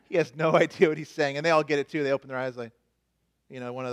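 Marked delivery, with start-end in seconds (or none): 0.1-1.4 chuckling through the words; laughing. Real, not acted. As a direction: laugh mid-sentence. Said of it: "repeated with a laugh".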